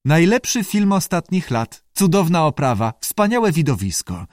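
a touch of the showman; advert-like recital. Acted. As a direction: recite it like a promotional slogan. The speaker reciting film advert as answer.

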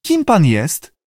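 high-pitched creature question; lightly squawked question; salamander voice. A narrator's reading. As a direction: ask as a curious talking lizard.

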